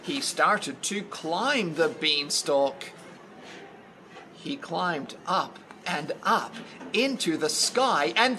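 lively storybook reading, lifting on big moments; story narration. A narrator's reading. Telling of Jack's climb, expressive storytelling. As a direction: read with growing wonder for children.

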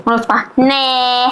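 ordinary delivery

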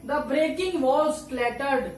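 very slow, each word stretched; slow example reading. Shown as a demonstration. Teacher reading a written example aloud very slowly. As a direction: read it out slowly to the class. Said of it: "example और लिखे हैं".

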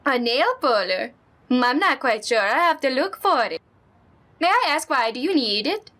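put-on friendly neighbor lady, lightly accented; Honda-san voice. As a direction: play the sweet old neighbor.

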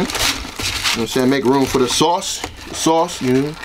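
talking through a bite of chicken; words round a mouthful; mouth full. Real, not acted. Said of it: "eating with the camera in my face".

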